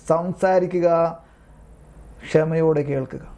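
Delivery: slow, deliberate repeat of the advice; slow emphasis. Shown as a demonstration. Priest stressing advice to confessors, slow and deliberate. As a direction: spell it out word by word, slowly. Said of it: "കണ്ടോ?".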